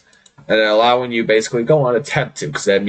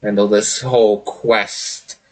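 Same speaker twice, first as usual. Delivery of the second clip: drawn-out, hammed-up boastful pirate; amused Pirate King; 2 semitones higher, slower than usual. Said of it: "Pirate King just laughs and is like".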